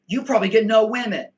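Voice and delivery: loud, fast sneering taunt; mocking troll voice. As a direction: parrot the troll with a loud jeer. Mimicking a troll's chat insult.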